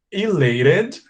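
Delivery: ELATED said carefully, rising high at the end; slow careful repetition. Shown as a demonstration. Teacher repeats words for pronunciation, slowly. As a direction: lift the end of "elated" like a list item. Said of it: "Now, a little bit slower".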